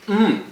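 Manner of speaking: high happy mmm while eating; savoring hum. Real, not acted. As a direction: hum with pleasure over the food.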